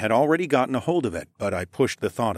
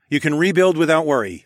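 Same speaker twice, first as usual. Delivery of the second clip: raised, louder good-news announcement; announced with a smile; 6 semitones higher, 7 dB louder than usual. A narrator's reading. Victor announces the beast's death to villagers, smiling. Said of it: "I announced with a smile".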